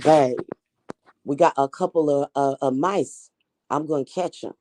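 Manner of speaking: amateur Australian accent, playing a witchy husband; lightly attempted Australian accent. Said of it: "he has an Australian accent".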